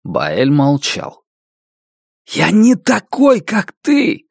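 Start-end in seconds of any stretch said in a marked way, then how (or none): 2.3-4.3 frustrated shout. A narrator's reading. Narrator yells at Bael in frustration, shouting. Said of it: "закричал я с досадой".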